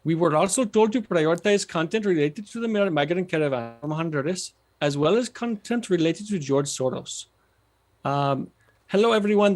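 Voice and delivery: reading in a tentative Indian accent; attempted Indian accent. Shown as a demonstration. Guest reading his book aloud, shaky Indian accent attempt. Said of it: "I'm gonna read in an Indian accent".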